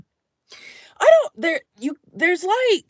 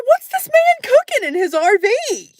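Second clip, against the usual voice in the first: curious thought; 10 semitones higher, 4 dB louder than usual. Retold or imitated. Curious inner thought voiced.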